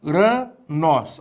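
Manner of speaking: Uranos slowly in syllables, opening on a plain u with no h; soft aspiration. Shown as a demonstration. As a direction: sound out u, ra, nós for Uranos, smooth vowel start. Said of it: "não muda o som do Y".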